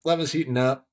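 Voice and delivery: mumbled into a shirt collar; muffled, mumbled words; talking into shirt. Retold or imitated. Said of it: "I mumbled a little bit".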